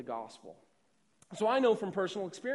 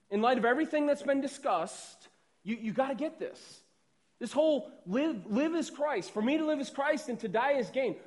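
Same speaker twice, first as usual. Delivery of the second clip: urgent, raised plea, higher and louder; Paul's urgent plea; 4 semitones higher, 4 dB louder than usual. Retold or imitated. A preacher voicing Paul's charge to the Philippians, urgent and raised. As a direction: press it home, insisting they get this. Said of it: "He's saying".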